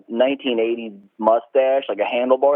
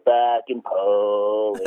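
slow, lower, drawn-out mock sneer; coworkers mimicking the boss; 3 semitones lower, much slower than usual. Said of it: "the voice".

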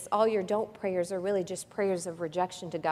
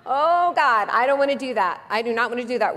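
mock reluctant prayer; 2 semitones higher, 5 dB louder than usual. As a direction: play the believer who refuses to dance.

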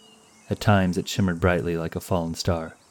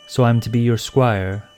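indignant, raised voice question; displeased; 5 semitones higher, 5 dB louder than usual. A narrator's reading. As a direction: she can't hide her annoyance. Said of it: "unable to hide her displeasure".

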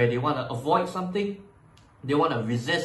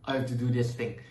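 weary sigh of obligation; reluctant; 2 semitones lower, 4 dB quieter than usual. Shown as a demonstration. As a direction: drag yourself through the words. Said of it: "most likely it's gonna be".

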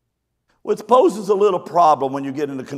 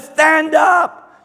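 slow loud shout; 12 semitones higher, 7 dB louder than usual. Retold or imitated. Pastor in the river yelling to panicking ladies, slow loud shout. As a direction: call out slowly, high and loud.

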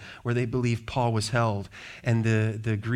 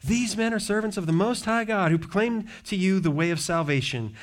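crying out; 5 semitones higher than usual. Retold or imitated. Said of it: "crying out".

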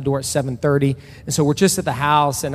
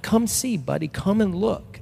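put-on higher, gentle coaxing of a child; dad coaxing his son higher and gently to come look; 5 semitones higher than usual.

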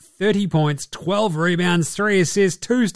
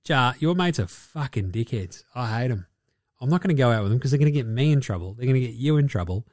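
imitating teammates; 5 semitones lower, 5 dB quieter, faster than usual. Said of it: "And they're like".

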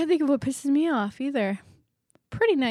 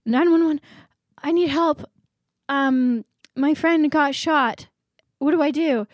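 panicked caller; 5 semitones higher, 5 dB louder than usual. Acted. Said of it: "and he goes".

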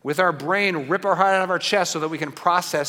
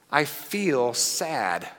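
slow spoken example; 2 semitones lower, 3 dB quieter, much slower than usual. Shown as a demonstration. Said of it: "when we say things like".

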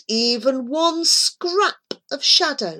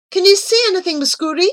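louder, higher call; 12 semitones higher, 6 dB louder, much faster than usual. A narrator's reading. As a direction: call out anxiously to the cat. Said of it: "he called".

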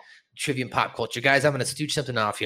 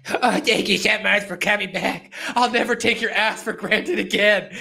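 gushing mock-grateful hug, pitched up; tag gushing thanks; 4 semitones higher, 3 dB louder than usual. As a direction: imitate an overjoyed kid thanking his rescuer. Voices Clyde hugging Cartman gratefully.

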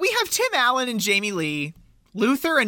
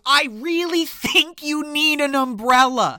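imitating Santa; 6 semitones higher, 3 dB louder than usual. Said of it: "and Santa goes".

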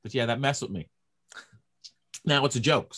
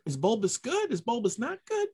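higher, rising worried questions; pitched-up anxious self-questioning; fretful inner voice; 11 semitones higher than usual. Retold or imitated. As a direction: fret over the word like a nervous kid. His inner worrying voice.

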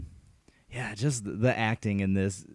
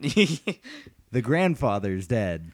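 mock announcement; much slower than usual. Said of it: "could have been preceded by".

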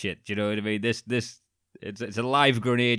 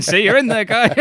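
high, loud cartoonish doctor; goofy surgeon voice; 13 semitones higher, 9 dB louder than usual. Bumbling surgeon reassures his patient in a hammed-up high voice.

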